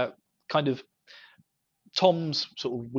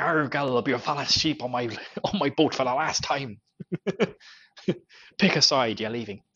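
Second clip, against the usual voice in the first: slightly louder hammed-up pirate captain; 4 dB louder than usual. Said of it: "a proper, like, pirate voice".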